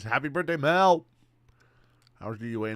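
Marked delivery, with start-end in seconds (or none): 0.0-1.1 louder, higher cheer; birthday shout. Real, not acted. Streamer cheers a birthday wish to Mel, loud. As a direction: call it out to celebrate.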